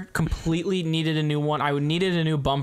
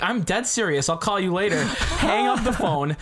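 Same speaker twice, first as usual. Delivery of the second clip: a bit higher and laughing; 4 semitones higher than usual. Retold or imitated. Driver tells his friend on the phone he got hit, laughing. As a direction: laugh it off while hanging up. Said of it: "I'm like".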